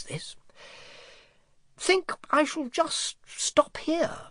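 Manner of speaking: high, sleepy dragon voice, whispered in places; a sated dragon nodding off mid-thought; drowsy dragon. A narrator's reading. Dozing dragon mumbles to himself after the banquet, sleepy.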